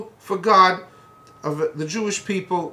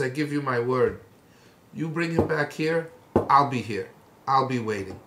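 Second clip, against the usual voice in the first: reassuring promise; 5 semitones lower than usual. Retold or imitated. Elijah calming the frightened servant, low reassuring voice.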